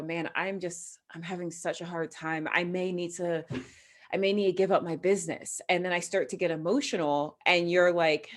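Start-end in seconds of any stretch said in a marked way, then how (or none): 0.0-5.6 softer, mildly downcast mock confession; weary confiding. Imagined friend confiding business trouble to a friend, mildly downcast and softer. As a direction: play someone quietly admitting they're struggling.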